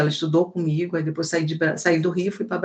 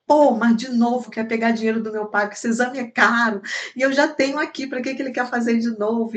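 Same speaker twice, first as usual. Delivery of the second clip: annoyed; 4 semitones higher than usual. Retold or imitated. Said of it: "ele já ficou chateado".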